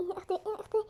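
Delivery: tearful call with a sob; crying. Acted. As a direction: whimper for your sister. Child crying for sister. (بكاء خفيف)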